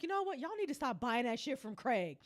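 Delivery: understated, played weary advice; David. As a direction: quietly lay down the law as a fed-up friend. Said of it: "David's like".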